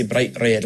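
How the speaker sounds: "bright red" with a single flick on each R; tapped Scottish R. Shown as a demonstration. Coach repeating the example, tapped Scottish R in "bright red". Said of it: "It's called a tapped R".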